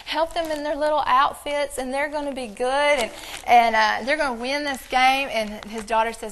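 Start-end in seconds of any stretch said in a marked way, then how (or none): 0.0-5.3 mock giddy pleading, louder and higher; silly prayer. Pastor imitating his wife praying for the Saints, giddy and loud. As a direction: ham up a silly game-day prayer. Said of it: "she's being silly".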